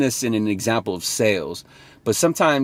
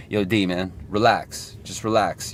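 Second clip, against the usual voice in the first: calming self-talk; 3 semitones lower, 4 dB quieter than usual. Retold or imitated. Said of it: "talking to myself like".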